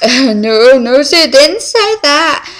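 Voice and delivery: high, loud, slow, laughing through it; laughing mock denial. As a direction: cover the blunder with a giggle. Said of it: "we were like".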